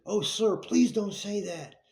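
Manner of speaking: high, loud, slow imitated woman's plea; pleading lady. Shocked lady begging the narrator not to wish death, high plea. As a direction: beg him like a shocked lady.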